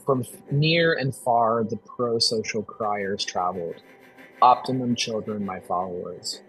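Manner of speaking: prophetic reading. Shown as a demonstration. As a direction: read it like an ancient prophecy, unhurried. Reads a prophetic text aloud.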